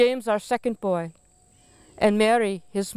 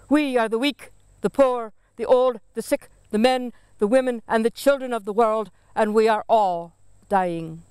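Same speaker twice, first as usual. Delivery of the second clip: ghosts crying out over the storm, mildly raised; shadow shouting. Acted. Shadow warning the living, a restrained mock shout. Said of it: "louder, the shadow shouted".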